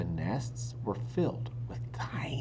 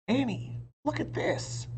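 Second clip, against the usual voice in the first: called out; 14 semitones higher than usual. A narrator's reading. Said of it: "Jack called".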